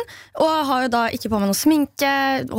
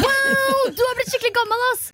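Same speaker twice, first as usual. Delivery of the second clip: put-on she re-does how the boy said it, high teen voice; mocking teen boy; 10 semitones higher than usual. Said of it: "måten han sa det på".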